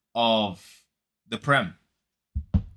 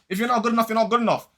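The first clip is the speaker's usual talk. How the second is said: mock pundit voice; 7 semitones higher, much faster than usual. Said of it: "That's how they all talk".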